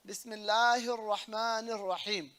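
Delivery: Bismillahir Rahmanir Rahim with doubled l and r; a measured "Bismillahir Rahmanir Rahim", leaning on the doubled letters; shaddas pronounced. Shown as a demonstration. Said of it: "the shaddas are".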